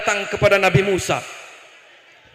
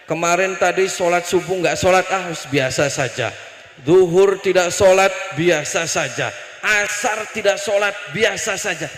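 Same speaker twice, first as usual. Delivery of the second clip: mimicked indifference; 3 semitones lower than usual. Mimicking people indifferent to missing prayer.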